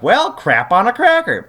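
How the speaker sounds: a cartoonish groan of mild annoyance; lightly voiced exasperated hero; mock exasperated Jace. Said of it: "Jace is like".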